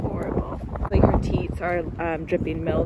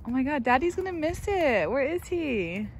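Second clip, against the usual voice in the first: excited; 6 semitones higher than usual. Real, not acted. Birth starting, dad absent.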